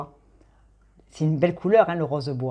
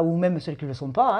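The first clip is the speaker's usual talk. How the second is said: ordinary talk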